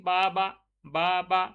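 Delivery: বা বা split into separate beats; syllable demo. Shown as a demonstration. Teacher splits বাবা for the class, beat by beat. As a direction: sound out বা twice, two separate pushes. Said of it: "বাবা উচ্চারণ করতে গেলে".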